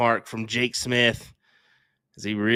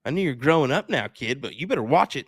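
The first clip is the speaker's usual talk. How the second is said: playful, lightly raised challenge; mock tough talk; 4 semitones higher than usual. Caster teasing Connor in chat, mock threatening. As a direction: jokingly warn a cheeky kid.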